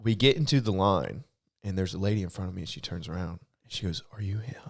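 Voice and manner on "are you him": hushed question, voiced rather than truly whispered; retold whisper. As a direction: softly imitate a furtive whisper. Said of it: "She, like, whispers it".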